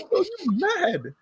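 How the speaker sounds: a hint of a fuming preacher; mock angry zealot. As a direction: grumble like a sulky zealot.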